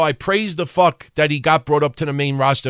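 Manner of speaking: ordinary delivery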